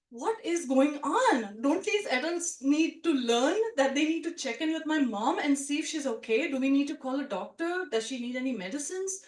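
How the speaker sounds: put-on a confused little girl wondering what's going on; bewildered.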